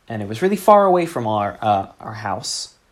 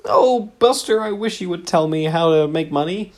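silly character voice; 8 semitones higher, 4 dB louder than usual. Pretend. Improv partner chiding Buster in a very high prim voice. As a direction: coo it like a fussy old dear.

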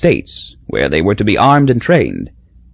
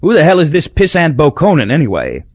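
Crosby's question; 5 semitones higher than usual. Acted. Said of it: "Crosby's basic question to our driver".

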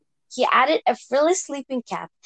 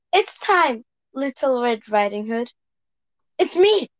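Red Riding Hood voice. Acted. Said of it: "you can read that again".

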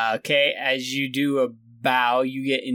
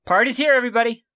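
calling out; 7 semitones higher, 4 dB louder, much faster than usual. Acted. NPC calls out.

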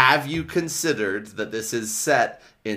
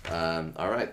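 deep, lower bassy voice; 7 semitones lower, 4 dB quieter than usual. Real, not acted. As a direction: drop into a bassy low voice. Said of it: "your voice got so bassy".

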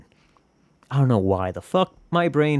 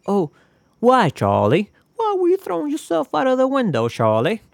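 much higher, mock-tragic plea; mock lament; 11 semitones higher than usual. Speaker mock-pleading with himself, much higher melodramatic lament. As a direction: cry out to yourself like a melodrama.

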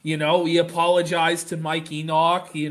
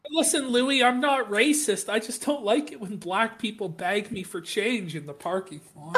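lightly put-on higher voice, pleading innocence; mock defensive excuse; 3 semitones higher than usual. Co-host mimicking the man who says he's not racist, mock defensive. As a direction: plead your case in a mildly hammed-up higher pitch.

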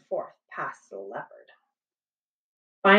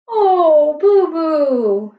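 put-on high, tender little-girl voice; 9 semitones higher, 6 dB louder, much slower than usual. A narrator's reading. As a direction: voice young Annie soothing a friend. Annie comforts scared gorilla.

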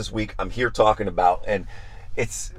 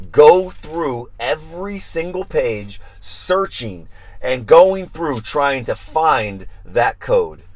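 slow, deliberate; 3 semitones higher, slower than usual. Acted. Describing meticulous search.

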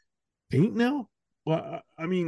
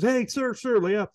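quoting the guy; 8 semitones higher than usual. Retold or imitated. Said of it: "and the guy says".

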